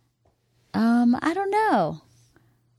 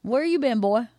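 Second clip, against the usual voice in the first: lightly voiced Southern call, raised pitch; Southern relative impression; 2 semitones higher than usual. Wife showing how her family sounds, light Southern accent. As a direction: call to kin with a Southern twang. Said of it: "Like that".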